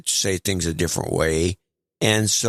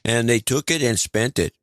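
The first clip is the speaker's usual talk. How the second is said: put-on Canadian accent; 4 semitones higher than usual. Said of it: "I got this Cana".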